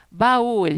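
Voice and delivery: "Baú" split as ba-Ú, loud; emphatic two-syllable "Baú"; vowels in hiatus. Shown as a demonstration. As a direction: hit the ú of "Baú" apart from the a. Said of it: "se separa".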